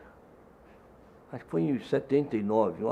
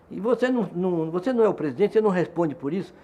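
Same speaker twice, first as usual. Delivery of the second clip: raised pitch, mock interrogation; challenging questioning; 4 semitones higher, 4 dB louder than usual. Police chief grilling the union president, mock challenging. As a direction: imitate an official demanding answers.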